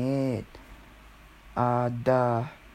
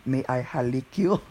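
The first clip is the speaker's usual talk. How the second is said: Ed. Retold or imitated. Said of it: "Was when Ed said that".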